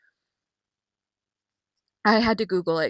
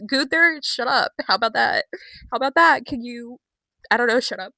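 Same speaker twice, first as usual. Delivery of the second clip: telling off Gunther; 4 semitones higher, 4 dB louder than usual. Retold or imitated.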